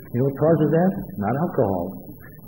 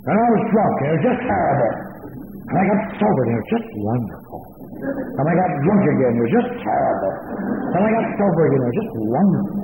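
mocking speakers. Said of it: "They say things like".

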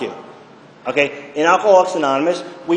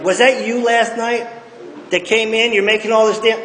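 mother confronting; 5 semitones higher than usual. Retold or imitated. Mother voiced confronting son.

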